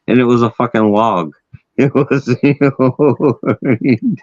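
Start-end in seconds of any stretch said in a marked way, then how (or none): 1.8-4.2 slow, higher, breaking into laughter; laughing. Real, not acted. Storyteller delivering the wolverine line to a friend, laughing. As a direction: crack up on the last word. Cracks up at mock punchline.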